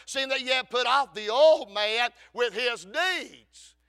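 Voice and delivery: loud, rising revival preaching; full-force preaching. Acted. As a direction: belt out the scripture to the congregation.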